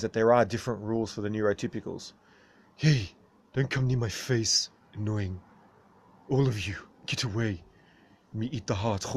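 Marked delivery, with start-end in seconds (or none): 2.8-9.0 a gruff creature shooing people off; grumpy character voice. Acted. Creature shooing the viewers from its face, gruff. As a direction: growl at the camera to get away.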